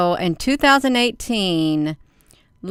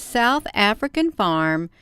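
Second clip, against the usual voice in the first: reading the headline; slower than usual. Acted. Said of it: "So it says".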